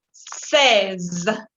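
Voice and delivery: "Seize" susurrado, la s sonora marcada. Shown as a demonstration. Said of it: "A no confundir". ("Seize" en voz baja, sin voz)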